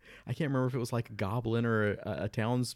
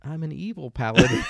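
smug evil paladin; 5 semitones higher, 9 dB louder than usual. Retold or imitated. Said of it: "And it's like".

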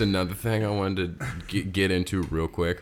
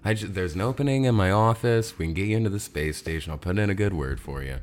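Derek Solo voice. Pretend. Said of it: "Derek Solo, who's like".

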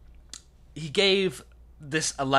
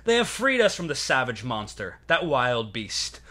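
roman orator. Acted. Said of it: "And I quote".

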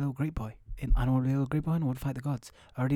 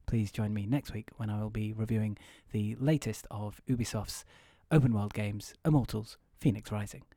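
lightly voiced reviewer; hushed reviewer voice. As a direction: murmur the preview like a late-night host. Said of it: "I enjoy doing that voice".

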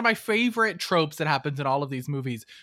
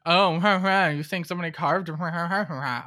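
imitating a defensive blustering retort; hammed-up huffy ha-ha babble, trailing off; mock defensive. Host mimicking the heroine getting defensive, mock defensive. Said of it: "like, defensive the whole time about it".

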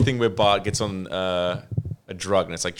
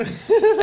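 high, loud laugh; 6 dB louder than usual. Real, not acted. Retelling a Simpsons joke to a friend, high loud laugh.

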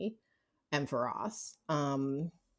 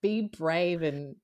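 mock teary confession; 4 semitones higher than usual. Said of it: "And I'd be like".

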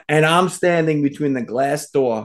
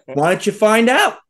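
raised-pitch mock threat; retold tough-guy comeback, pitched up; Ernie; 7 semitones higher, 3 dB louder than usual. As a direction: imitate a friend daring a fight. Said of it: "He goes".

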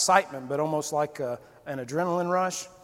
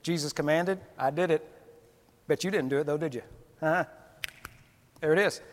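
smug bragging; 4 dB quieter, faster than usual. Retold or imitated. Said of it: "I could see it being me".

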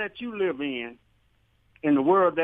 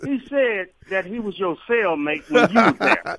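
chuckling through the tease; giggling through a cheeky jab at the host; laughing while talking. Real, not acted. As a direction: laugh as you deliver the jab. Caller teasing host, laughing.

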